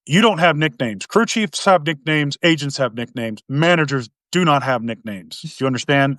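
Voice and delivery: imitated stern boss, measured delivery; real serious manager. Manager chewing out his new manager over nicknames, mildly stern. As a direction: lightly mimic a manager laying down rules. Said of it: "he was a real serious dude".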